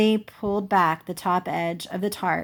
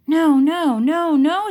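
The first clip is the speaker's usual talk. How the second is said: louder, higher desperate no's; upset refusal; 9 semitones higher, 7 dB louder, slower than usual. Acted. Jessie refuses to accept Grandma's state, near tears. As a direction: refuse in distress.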